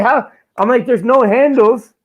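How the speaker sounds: high, slow squeal of disbelief; squeaky mock outrage at the glass door; outraged disbelief. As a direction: shriek it, baffled and offended, drawn out.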